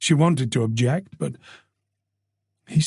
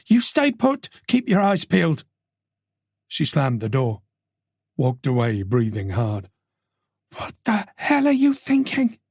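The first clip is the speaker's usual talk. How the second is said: brisk Tess. Acted. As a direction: command then scold yourself. Tess voiced by narrator.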